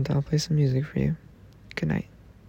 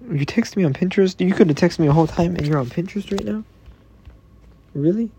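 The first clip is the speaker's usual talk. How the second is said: mock outrage; 4 semitones higher, 4 dB louder than usual. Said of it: "You know, I'm angry now".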